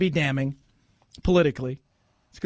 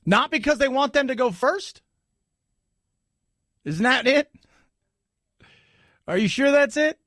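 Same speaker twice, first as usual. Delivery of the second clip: higher-pitched sarcastic questioning; mock incredulous; 3 semitones higher than usual. Host jeering at an anchor's take, mock incredulous. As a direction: feign disbelief, pausing between questions.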